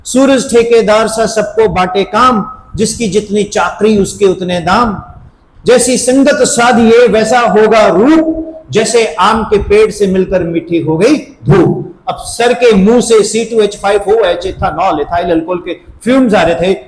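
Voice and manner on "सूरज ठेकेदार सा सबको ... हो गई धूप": lightly performed recitation; reciting verse. Retold or imitated. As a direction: declaim the verse like a tipsy teacher. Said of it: "अब कहते ना".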